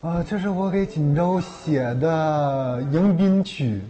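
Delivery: slow and deliberate, leaning on 迎 in 迎宾曲; slow proud announcement. Shown as a demonstration. Singer unveiling his new welcome song to the host, slow and deliberate.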